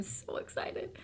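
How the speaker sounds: excited whisper. Real, not acted. Echoes excitement, unvoiced.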